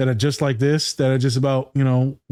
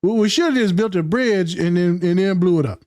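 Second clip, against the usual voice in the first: higher-pitched mock bigot; in-character bigot; 5 semitones higher than usual. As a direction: satirical xenophobe pitching a scheme. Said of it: "You're in character".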